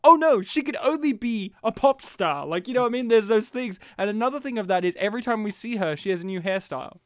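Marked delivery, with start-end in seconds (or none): 0.0-2.5 higher, louder exclamation of dismay; hammed-up realization; mock dismay. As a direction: blurt it out in mock alarm. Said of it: "taken out and go".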